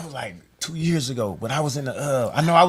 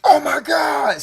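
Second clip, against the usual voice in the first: mock fan gasp; 10 semitones higher, 5 dB louder, much slower than usual. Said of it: "She was like".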